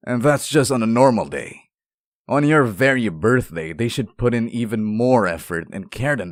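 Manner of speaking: rising, heated indignation on their behalf; indignant outburst. Acted. Indignant outburst defending the listener.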